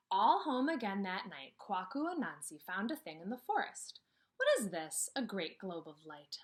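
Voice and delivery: put-on reading a folk tale aloud to children; storybook reading. Teacher reads Anansi to her class, storybook voice.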